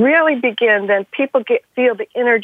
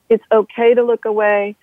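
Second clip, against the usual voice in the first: ordinary delivery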